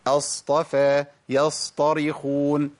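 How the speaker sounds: أصطفى and يصطرخون recited with an unexaggerated ص; natural sad timing. Shown as a demonstration. Teacher correcting the timing, natural measured sad. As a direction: give the silent ص its measured time, no added vowel. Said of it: "محتاج إن الزمن بتاعها يبقى طبيعي".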